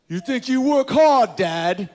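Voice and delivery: put-on high, slow child voice; sassy child. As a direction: play a cheeky kid, high up. British kid voiced.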